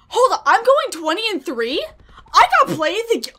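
loud, high disbelief; high, thrilled outburst; amazed excitement. Real, not acted. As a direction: exclaim it as if stunned by the news. Amazed at own score.

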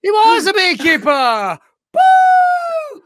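high, excited cheer; triumphant confirmation. Real, not acted. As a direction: celebrate the correct guess, ending in a loud whoop. Confirms the correct guess.

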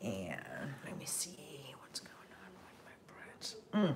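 hushed aside to herself; whispered aside. Real, not acted. The host murmurs an aside while checking her bread, whispered.

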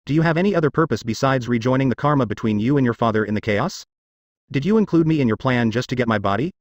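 words pushed through gritted teeth. Acted. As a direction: speak with gritted teeth, restrained anger. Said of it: "asked through gritted teeth".

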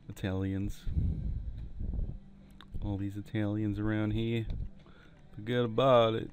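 put-on Italian accent. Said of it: "Enough of my bad Italian accent".

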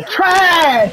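drawn-out yelled TRASH; hammed-up battle cry of disgust; mock character yell. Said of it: "That's what he should be yelling".

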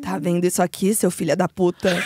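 low demon voice, laughing; demonic double. Acted. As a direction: growl it like a possessed mother. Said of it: "Eu quero voz de demônio".

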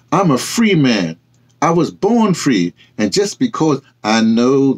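a hint of wounded pride; proud. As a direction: boast of your standing, then bristle. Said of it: "Renee says".

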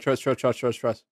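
quiet reassurance. Real, not acted. Reassuring while drawing.

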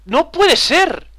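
high, slow drawn-out disbelief; disbelieving. Real, not acted. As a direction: stretch it out in shock. Disbelief at dying in game. (incredulidad exagerada)

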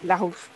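"Larouche" with a throaty French R. Shown as a demonstration. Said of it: "do I pronounce the R with a R".

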